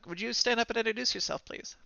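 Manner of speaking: teacher instructing. Acted. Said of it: "instruct the closest person".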